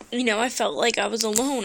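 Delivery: usual speaking voice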